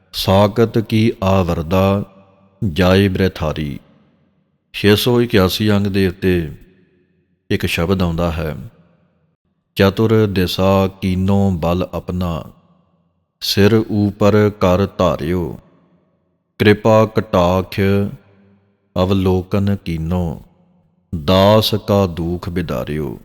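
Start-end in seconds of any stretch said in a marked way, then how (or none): 0.1-3.8 slow, drawn-out chant of the verse; slow scripture recitation. Shown as a demonstration. Granthi demonstrating Gurbani pronunciation to the congregation: slow recitation. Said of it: "ਇਸ ਤਰ੍ਹਾਂ ਸ਼ੁੱਧ ਉਚਾਰਨ ਹੈ". 9.7-23.2 slow, drawn-out chant of the verse; slow scripture recitation. Shown as a demonstration. Granthi demonstrating Gurbani pronunciation to the congregation: slow recitation. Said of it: "ਇਸ ਤਰ੍ਹਾਂ ਜਿਹੜਾ ਪਾਠ ਹੈ ਨਾ".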